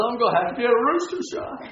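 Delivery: imitated tearful little boy; lightly acted cartoon whimper; mock crying. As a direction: raise the pitch and rush it like an upset child. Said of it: "and he's crying".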